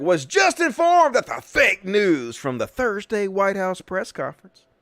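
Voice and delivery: high, fast mock Trump voice reading his post; mocking Trump tweet. Host mocking the president's tweet in a high put-on voice. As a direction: sneer it out as a parody of the president. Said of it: "So he's like".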